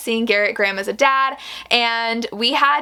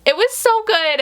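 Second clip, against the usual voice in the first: high, bright burst of delight on so good; gushing; 11 semitones higher than usual. Real, not acted. Vlogger gushing to viewers about the book's ending, excited. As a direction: let the praise leap up high.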